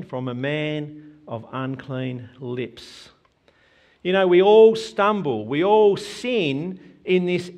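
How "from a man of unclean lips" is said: "From a man of unclean lips" dropped soft and slow, almost to himself; quiet, slow echo. Shown as a demonstration. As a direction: let the words sink in, hushed and slow. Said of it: "And what was his conviction?".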